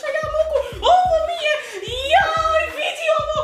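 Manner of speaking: high-pitched scolding Serbian mum; Serbian mother accent. Pretend. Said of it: "The Serbian mother accent".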